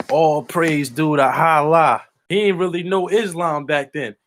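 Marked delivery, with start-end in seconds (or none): 0.1-2.0 slow, drawn-out imitation of a boxer; Mike Tyson. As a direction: recite it slowly as a new convert would. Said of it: "That nigga Mike said".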